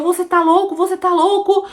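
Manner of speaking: high pleading disbelief, close to tears; desperate high cry. Retold or imitated. Woman screaming at her husband, high desperate cry. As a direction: beg him to come back to his senses. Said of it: "eu só gritava, eu só chorava".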